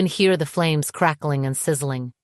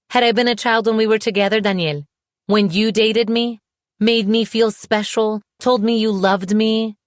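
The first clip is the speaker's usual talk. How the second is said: angry accusation; 6 semitones higher, 4 dB louder than usual. A narrator's reading. Woman challenging her ex about when they dated, accusing. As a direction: pile up accusing questions, pitched high.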